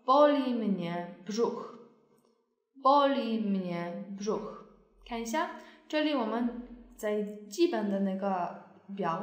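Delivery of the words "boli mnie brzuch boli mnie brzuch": slow demo. Shown as a demonstration. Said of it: "我们说".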